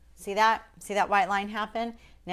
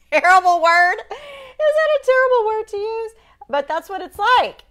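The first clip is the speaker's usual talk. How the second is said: much higher and louder, laughing through the question; giggly self-conscious; 10 dB louder than usual. Real, not acted. Painter laughing at her own word to viewers, high giggly voice. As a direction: laugh at your own odd word choice.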